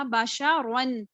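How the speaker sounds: بشرن spelled out very slowly, heavy را; slow Quranic reading. Shown as a demonstration. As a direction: stretch بشرن with a full را. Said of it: "را دو زبر، رن". (بشرن بہت آہستہ، را پُر)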